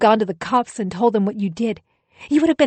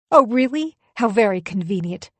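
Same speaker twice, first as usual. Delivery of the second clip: sarcastic retort; 2 semitones higher, 5 dB louder than usual. Acted. Wife retorts during quarrel.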